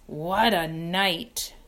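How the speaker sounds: slow, hoarse and satisfied. Acted. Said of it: "he repeated hoarsely".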